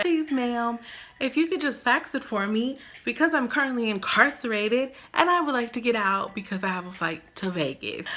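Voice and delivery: overly polite begging, half-mocking; mock polite plea. Begging the DMV lady to fax proof, mock polite. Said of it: "So I'm like".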